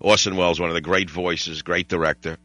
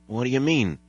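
put-on a mild frightened, babyish question; voice breaking; 4 semitones higher than usual. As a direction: lightly imitate a strong man suddenly scared. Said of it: "sounds like his whole voice broke".

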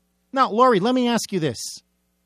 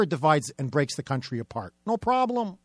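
sarcastic refrain; 4 semitones lower, 4 dB quieter than usual. Shown as a demonstration. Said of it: "repeated sarcastic refrain".

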